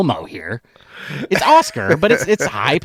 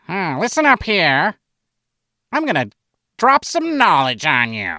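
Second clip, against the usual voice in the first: second take, less nasal grouchy monster voice; mock grouch voice, a bit higher; Oscar the Grouch; 3 semitones higher than usual. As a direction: growl it like a grumpy puppet. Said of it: "give you my Oscar the Grouch impersonation".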